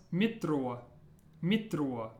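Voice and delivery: "mitro" with a rolled r. Shown as a demonstration. Teacher modelling the word for metro to learners, rolled R. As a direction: roll the r in "mitro", Russian style. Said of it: "Watch your R as a rolled R".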